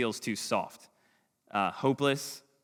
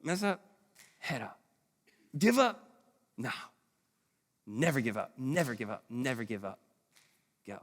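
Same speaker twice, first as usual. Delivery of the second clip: softer, inward version of the chant; quiet self-talk; 5 dB quieter than usual. Shown as a demonstration. Dad telling himself the chant, softly. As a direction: murmur it to yourself when discouraged. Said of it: "And I wanna go".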